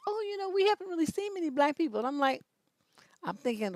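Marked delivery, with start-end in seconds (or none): 0.1-2.0 lightly voiced naive woman, higher and fast; mock naive lady. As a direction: gush it out like a clueless stranger. Imitating the Canadian lady.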